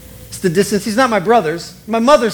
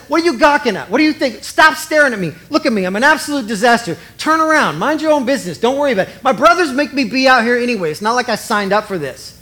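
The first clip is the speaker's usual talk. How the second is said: higher-pitched, lightly acted indignation; indignant retort; 4 semitones higher, faster than usual. Indignant woman tells the gawking king to stop staring, indignant retort. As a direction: tell off a staring onlooker.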